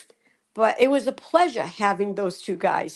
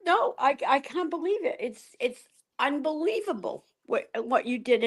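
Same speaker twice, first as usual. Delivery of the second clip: moved to tears; 2 semitones higher, 4 dB quieter than usual. Real, not acted. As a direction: struggle to take in the kindness. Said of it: "Now I'm crying".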